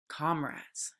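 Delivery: hushed, breathy-free whisper of a scheming pig; quiet whisper. A narrator's reading. Napoleon whispers to the animals, quietly. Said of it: "he said quietly".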